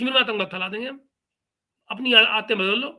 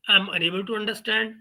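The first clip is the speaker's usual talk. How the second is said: slow, dragged-out parody of the commentator; mocking imitation; much slower than usual. Host mocking the Pakistani commentator's confused reply, slow parody. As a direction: drawl it back at him like a fool.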